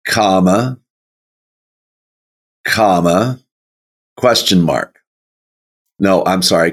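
normal talking voice

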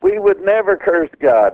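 high, indignant mock protest; retold outrage. Churchgoer rising to scold the preacher, mock indignation. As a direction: play the offended churchgoer, voice jumping up high. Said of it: "one gentleman got so upset he stood up".

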